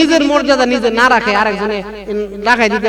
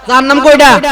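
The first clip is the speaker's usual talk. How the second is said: louder, insistent repeat of the question; loud angel demand; 7 dB louder than usual. Acted. Angel presses the man again, loud demand.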